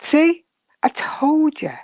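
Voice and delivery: high, loud playful "See?"; teasing gotcha. Real, not acted. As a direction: crow that you were right. Teasing friend who arrived.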